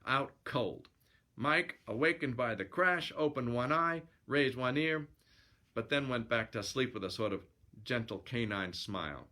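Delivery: lively yarn-spinning narration; storyteller reading aloud; story narration. A narrator's reading. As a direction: read it as a colloquial sailor's yarn.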